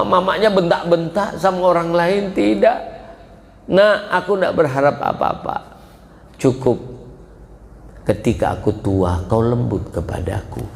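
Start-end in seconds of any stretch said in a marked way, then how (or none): 3.7-10.6 father's lament. Acted. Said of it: "kata beliau".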